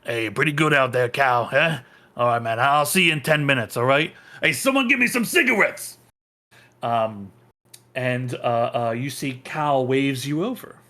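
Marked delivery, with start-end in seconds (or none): 0.1-6.0 actor between takes. Acted. Sweaty actor in costume chatting to Cal, then calling out. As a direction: toss it off quickly, then holler for cigarettes. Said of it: "looks at you and goes".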